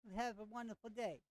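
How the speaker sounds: friendly sendoff in a mock Jamaican lilt; lightly voiced Jamaican shopkeeper; bad Jamaican accent. Vendor sending the player off, hammed-up Jamaican accent. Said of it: "it's a horrible Jamaican accent".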